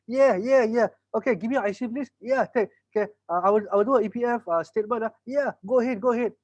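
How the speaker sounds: both sides hyped up; excited. Retold or imitated. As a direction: seller and customer excitedly signing up. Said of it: "I also get excited".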